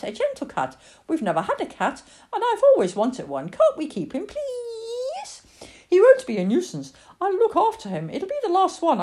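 put-on high little-girl voice, begging; wheedle, stretching into a long high please; pleading child. Lily begs Mum to keep the cat, high insistent pleading.

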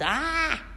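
high, restrained scary "aah"; mild mock monster yell; monster's yell. A narrator's reading. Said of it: "jumped up and down and yelled".

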